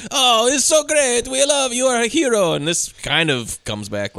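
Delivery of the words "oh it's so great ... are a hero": imitated admiring Greeks. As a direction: gush like an adoring Greek crowd. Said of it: "all the Greeks are like".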